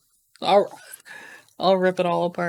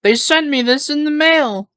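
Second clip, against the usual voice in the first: excited; 8 semitones higher, 3 dB louder than usual. Real, not acted. Excited about surprise package.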